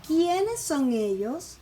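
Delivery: teacher's drawn-out example question, emphatic QUIÉNES; question intonation. Shown as a demonstration. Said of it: "la pronunciación cambia".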